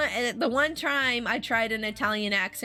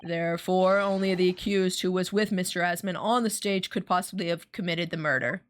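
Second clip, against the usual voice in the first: lightly voiced prosecutor; 2 semitones lower than usual. Reads prosecutor lines.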